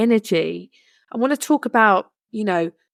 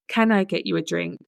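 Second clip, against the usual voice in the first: a quiet, courteous offer; softly polite offer; 4 dB quieter than usual. Retold or imitated. Café worker offering tired sisters a drink, quiet and polite. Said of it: "very politely and said".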